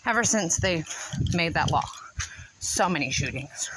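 panting between words; breathless from the walk; out of breath. Real, not acted. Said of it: "I'm out of breath".

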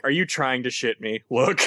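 understated deadpan challenge in character. Acted. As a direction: deliver it drily, with no excitement. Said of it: "gives Zenkarn a really deadpan".

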